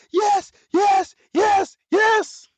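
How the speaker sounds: high, loud delighted yes yes; gleeful yeses. Real, not acted. KDE fan cheering the desktop, gleeful. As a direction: squeal yes with joy.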